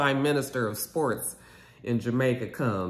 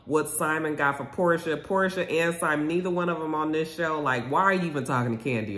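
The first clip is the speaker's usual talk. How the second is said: indignant rant; 5 semitones higher than usual. Real, not acted. Ranting at Marlo's behavior.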